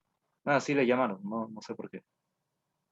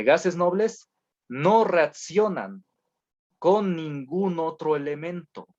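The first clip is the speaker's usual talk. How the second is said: dictado lento; 3 semitones higher, slower than usual. Shown as a demonstration. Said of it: "o más bien póngale".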